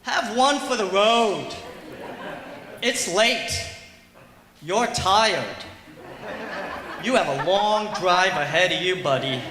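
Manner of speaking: pushy drinking buddies. Acted. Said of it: "And they're like".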